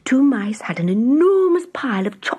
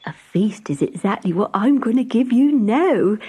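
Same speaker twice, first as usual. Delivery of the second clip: interrupting; 3 semitones higher than usual. Acted. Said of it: "interrupted the Country Mouse".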